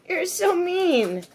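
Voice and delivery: laughing whine. Real, not acted. Just got bitten, laughing.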